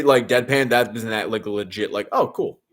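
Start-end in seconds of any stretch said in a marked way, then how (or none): 2.1-2.6 sarcastic. Shown as a demonstration. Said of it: "I've been very sarcastic".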